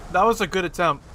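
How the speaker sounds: talking with a mouthful of food; words muffled by a bite of pizza; mouth full. Real, not acted. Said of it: "I have food in my mouth a little bit".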